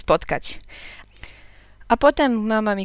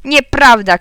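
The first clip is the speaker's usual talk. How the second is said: put-on loud, higher child's denial; shout; 5 semitones higher, 8 dB louder, slower than usual. A narrator's reading. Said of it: "krzyknąłem". (głośny, wyższy krzyk dziecka)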